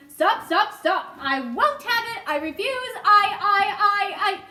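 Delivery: loud, high, frantic refusal; sputtering in alarm; panicked protest. A narrator's reading. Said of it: "cried the earthworm".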